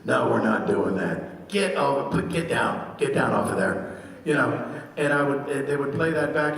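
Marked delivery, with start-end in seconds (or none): 0.0-4.0 Lucky's voice. Shown as a demonstration. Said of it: "in my head, I would be thinking".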